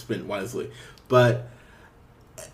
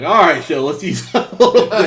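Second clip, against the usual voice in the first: louder, laughing "all right, show"; laughing protest; 5 semitones higher, 11 dB louder than usual. Retold or imitated. Viewer protesting a dark scene, laughing louder. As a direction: beg the show to ease up through a laugh. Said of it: "at points, was like".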